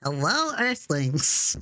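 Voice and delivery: low, swooping alien voice; alien greeting. Pretend. Player greets Earthlings as an alien, low swooping voice. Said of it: "that's what the Zubarian should be".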